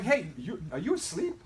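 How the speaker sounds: playful wake-up call, laughing through it; cheerful caller laughing at a sleepy friend; teasing laugh. Retold or imitated. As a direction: tease the sleepy prospect with a giggle. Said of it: "And I'd be like".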